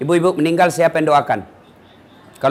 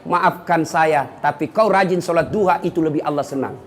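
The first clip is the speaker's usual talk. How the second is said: humble polite reply; 3 semitones lower than usual. Shown as a demonstration.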